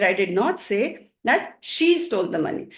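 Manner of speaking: "she" set apart and emphasised; emphatic "she", the rest falling; stress on SHE. Shown as a demonstration. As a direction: lean on the word "she". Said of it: "and she, when I stress them".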